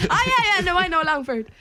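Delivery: high, laughing mock American star voice; mocking Vin Diesel. Teasing the story of Vin Diesel, laughing mock accent. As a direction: parrot him through laughter.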